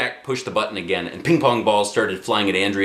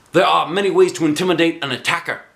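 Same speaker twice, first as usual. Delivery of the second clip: raised, eager karate teacher; 6 semitones higher, 4 dB louder, faster than usual. Acted. Karate teacher lecturing kids, higher and brighter.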